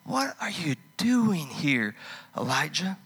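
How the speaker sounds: slow, gentle voice of God asking; lightly voiced God, slow and probing; God's voice. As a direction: ask it slowly, searching. God asks again.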